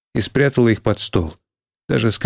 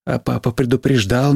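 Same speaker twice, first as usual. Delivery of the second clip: plain reading voice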